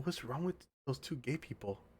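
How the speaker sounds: very hushed, very quiet whisper. Recounting what the lady handing over the order asked, imitating a whisper. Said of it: "Like she whispered".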